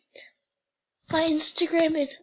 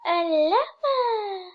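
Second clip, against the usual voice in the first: excited; 4 semitones higher, 3 dB louder, much slower than usual. Real, not acted. Excited reaction to a quiz result.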